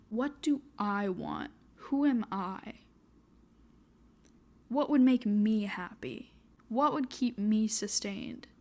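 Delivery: teary shaky voice, close to crying. Real, not acted. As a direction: speak through held-back tears. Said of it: "Sorry for the shaky voice and teary eyes".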